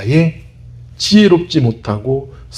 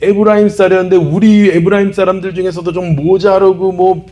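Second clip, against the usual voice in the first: a raised, scornful taunt; mocking insult; 5 semitones higher than usual. Ephraimites taunting Gileadites, mocking scorn. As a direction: sneer at them as worthless rabble. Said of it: "모욕하는".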